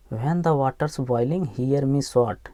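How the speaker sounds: very slow, each word of This and this is my spot drawn out; slow reading model. Shown as a demonstration. Teacher reading the line slowly to students. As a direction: read it word by word for the class. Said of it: "teacher models the phrase slowly".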